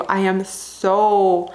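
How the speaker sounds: each word dragged out slowly, seething; real slow fuming. Real, not acted. Book reviewer venting at an offensive book, slow and seething. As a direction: let the real anger slow every word right down. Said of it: "so mad right now".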